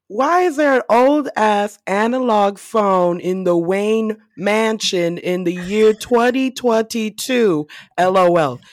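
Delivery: slow, emphatic read-out of a note; deliberate written-note delivery; reading own note. Retold or imitated. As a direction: read it out word by word with mock indignation. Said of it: "that is what I wrote".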